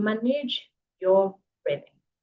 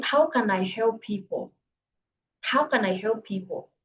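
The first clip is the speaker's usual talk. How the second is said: sincere inner question. Shown as a demonstration. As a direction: ask it humbly to yourself. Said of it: "you are asking".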